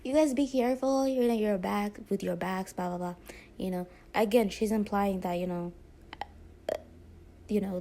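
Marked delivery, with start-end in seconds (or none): 0.0-3.1 a lightly mocking sing-song warning that fades out; mimicking an instructor's sarcastic care tips. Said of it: "she was being very sarcastic".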